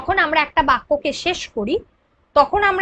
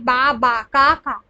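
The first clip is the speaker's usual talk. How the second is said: "বা, বা, কা, কা" each syllable set apart; broken into syllables; 3 semitones lower than usual. Shown as a demonstration. Teacher breaking words for pupils, "বা, বা, কা, কা" syllable by syllable. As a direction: chop the words up: বা, বা, কা, কা. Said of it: "এটাকে যখন আমরা ভেঙে দিচ্ছি".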